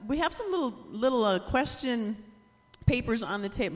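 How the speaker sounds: talking with gum in mouth; chewing gum. Real, not acted. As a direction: speak while chewing gum. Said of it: "Excuse me, I'm chewing gum".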